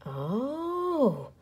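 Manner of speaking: soft breathy gasp of wonder; a hushed gasping oh. Acted. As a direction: gasp at the sight. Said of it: "the crowd gasped".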